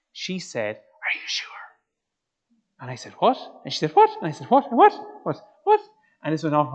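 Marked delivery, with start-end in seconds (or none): 1.1-1.7 hushed, voiceless whisper; tentative whispered question. Retold or imitated. Girl whispers in the silence. 3.2-5.8 short, sharp imitated whats; mock-startled what; startled disbelief. Startled back-and-forth after the whisper.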